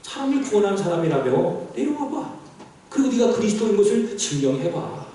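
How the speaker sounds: understated taunting challenge; mock dare, lightly acted. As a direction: imitate jeering priests, starting under the breath. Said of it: "조롱하고 희롱하고 있는 것이죠".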